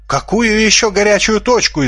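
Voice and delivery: high, thin squeak of fright; frightened squeak. A narrator's reading. Svinomyas panics about the war, squeaking in fright. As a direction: squeak it out, scared. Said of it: "испуганно пискнул Свиномяс".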